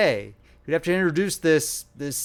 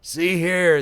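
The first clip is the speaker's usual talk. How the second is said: sudden announcement; 4 semitones higher, 5 dB louder than usual. Acted. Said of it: "the old man announced suddenly".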